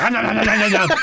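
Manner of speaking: retold panic. Retold panic as dog eats.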